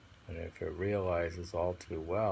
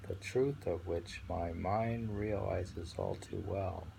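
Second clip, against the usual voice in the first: poem reading. Acted. Rereading the poem.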